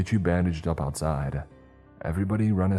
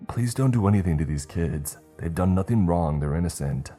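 cried out; 2 semitones higher, 4 dB louder than usual. Acted. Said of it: "Steve cried".

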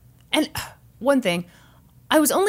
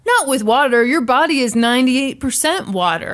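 raised, confident DJ voice; radio DJ; 4 semitones higher, 5 dB louder than usual. Retold or imitated. Guy DJ dismissing the danger, raised imitated on-air voice. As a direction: imitate a cocksure man DJ, a bit louder. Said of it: "the guy D J said".

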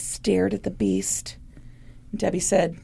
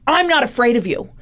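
slow, rising defiant dare; defiant challenge; 7 semitones higher than usual. Retold or imitated. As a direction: challenge the demon slowly. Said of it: "Arnie Cheyenne Johnson was like".

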